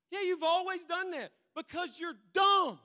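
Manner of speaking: mock shout; loud exasperated put-down. Preacher playing a friend yelling at stubborn habit, loud.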